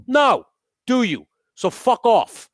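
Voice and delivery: very high, loud furious shout; angry yell. Retold or imitated. Screaming at the old driver to back off. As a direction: scream it in his face. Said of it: "I go".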